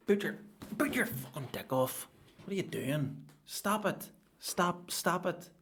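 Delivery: high, loud exasperated yelling at the poster; mock furious rant. Comic yelling at a show-off poster, furious. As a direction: shout it out like you can't stand them.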